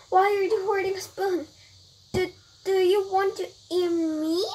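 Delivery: put-on high, anxious child-like questions; alarmed questioning. Brian asks the pudding fairy, alarmed. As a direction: ask in mild alarm, pitch well up. Brian fears being eaten.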